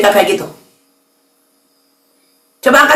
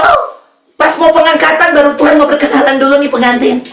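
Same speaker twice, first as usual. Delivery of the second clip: mocking quote. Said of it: "Jangan bilang".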